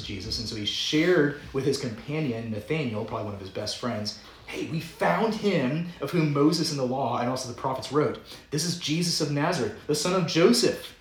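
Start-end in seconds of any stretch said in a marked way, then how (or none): 4.5-10.9 excited friend. Retold or imitated. Philip excitedly telling Nathanael.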